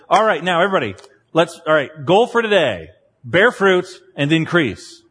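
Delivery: rally the troops with mock gusto; mock pep talk.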